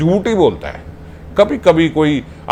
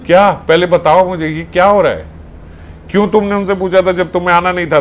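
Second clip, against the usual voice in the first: a sharp, raised angry demand; angry questioning; 3 semitones higher than usual. Acted. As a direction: confront him, demanding an answer. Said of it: "वो गुस्से में पूछे". (गुस्से में सवाल करती सखी)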